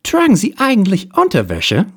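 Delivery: hard-boiled detective. Acted. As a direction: play the cool private eye, hammed up.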